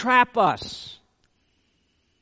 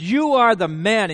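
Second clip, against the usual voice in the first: prophet's accusation; 4 dB louder, slower than usual. Retold or imitated. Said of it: "looks at him and says".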